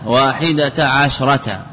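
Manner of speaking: slow واحدة عشرة, each ة sounded as "ta"; ta pronounced. Shown as a demonstration. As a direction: say واحدة عشرة with both final ta sounds voiced. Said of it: "يعني بإثبات التاء". (نطق واحدة عشرة بإثبات التاء)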